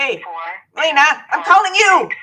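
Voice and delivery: loud and high, calling out to her. Real, not acted. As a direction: raise the voice to reach her. Calling a friend on phone.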